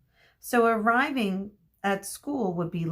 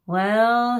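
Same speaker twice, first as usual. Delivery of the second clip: sharp teacher command; 4 semitones higher, 8 dB louder than usual. Acted.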